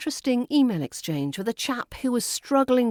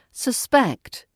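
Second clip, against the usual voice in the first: susPECT, reduced first vowel, high stressed ending; stress on second syllable; 5 semitones higher, 3 dB louder than usual. Shown as a demonstration. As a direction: hit PECT in "suspect". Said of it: "As a verb".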